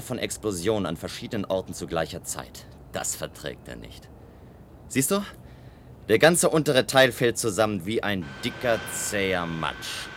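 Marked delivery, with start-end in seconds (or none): 4.9-10.1 rising thrill, faster at the end; gleeful excitement. Acted. Gleeful watching tower collapse. (begeistert, immer schneller)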